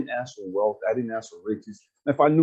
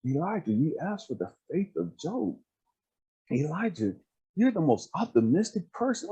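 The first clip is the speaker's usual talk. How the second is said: lightly voiced affirming speaker, pitched up; imitating an earnest, higher-pitched encourager; God; 5 semitones higher than usual. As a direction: build them up point by point, higher and emphatic. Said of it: "God was like".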